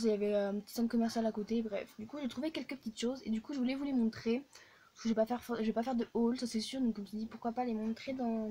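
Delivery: hushed late-evening chat. Real, not acted. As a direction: keep it hushed, as if others sleep. (voix feutrée)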